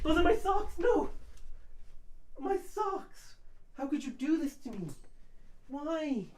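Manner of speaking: high, anguished wailing at the rabbit; distraught high-pitched cries; crying with rage. Real, not acted. Rabbit eating streamer's socks.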